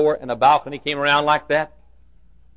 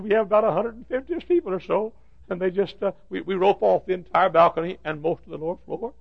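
high, thin-volume lament; imitated tearful voice; 4 semitones higher, 4 dB quieter than usual. Custodian confessing how few people come now, imitated tearful lament. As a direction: keep it high and softer, acting near tears. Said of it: "then he began to cry".

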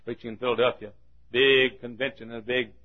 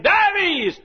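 high, long call of a name; summoning shout; 8 dB louder than usual. Acted. Name called at the judgement, loud high summons. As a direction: call him out like a court summons.

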